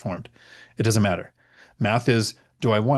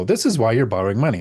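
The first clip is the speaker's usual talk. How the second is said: mock dad scolding with swooping pitch; exasperated dad; 4 dB louder than usual. Dad to daughter who DoorDashes everything, mock scolding. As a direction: lightly play a dad telling off his kid. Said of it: "I'd have a total dad moment".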